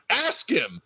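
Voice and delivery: high-pitched mock yell at the referee; Bobby Roode. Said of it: "Bobby Roode then look at the referee and".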